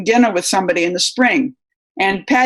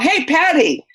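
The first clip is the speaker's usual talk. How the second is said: higher-pitched retold call-out; mock yell; 9 semitones higher, slower than usual. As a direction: call out a greeting, without full volume. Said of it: "so I just yelled".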